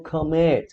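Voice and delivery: commit with the weight on MIT; stress on the last syllable. Shown as a demonstration. Teacher introducing the verb to students, commit stressed on MIT. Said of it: "a gente fala commit".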